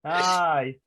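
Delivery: hard Glasgow hard-man threat; lightly put-on Scottish tough guy; Glasgow street accent. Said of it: "more Scottish people being legends".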